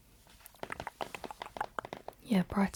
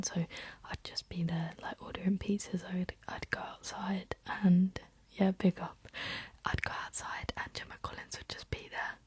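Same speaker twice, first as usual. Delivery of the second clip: ASMR whisper. Real, not acted. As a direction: whisper it close and unhurried, like ASMR. Whispered ASMR ramble throughout.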